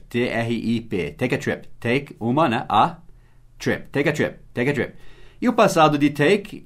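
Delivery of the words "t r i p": slow spelling. Shown as a demonstration. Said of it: "Viagem é trip".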